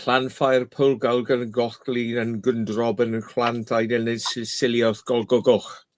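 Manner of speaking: reciting the long Welsh place name slowly. Shown as a demonstration. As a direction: rattle off the whole Welsh place name, slow in the middle. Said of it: "I wouldn't even try and say that".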